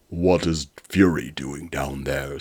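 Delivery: slow, loud evil robot. Acted. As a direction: growl it like a villain robot. Evil robot Hundred speaks.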